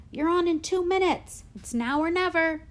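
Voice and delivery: high, loud urgent warning; hush shouting. A narrator's reading. Teacher warning understudy of curtain time, hush shouting. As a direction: call it urgently across the room. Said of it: "hush shouting from the door".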